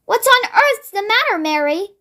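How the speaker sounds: a light touch of a royal lady, upset; lightly voiced queen, troubled; the Queen's voice. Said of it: "the famous voice was saying".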